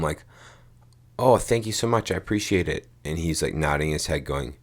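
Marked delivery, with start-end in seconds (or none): 1.2-2.9 higher, louder polite gush; lightly acted over-friendly thanks; effusive thanks. Visitor thanks the engineer for the plans, effusively.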